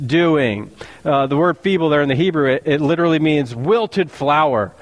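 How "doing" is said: low, slow mocking enemy; scornful governor's voice, slow and low; Sanballat sneering. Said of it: "he said".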